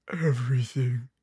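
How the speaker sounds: hushed, breath-only answer; whispered movie line. Retold or imitated. Fan quoting what it cost, whispered. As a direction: whisper it with mock gravity.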